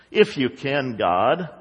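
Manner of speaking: low, subdued, tentative plea; doubtful prayer. Retold or imitated. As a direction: pray it with little conviction. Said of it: "that's how a lot of our prayers are".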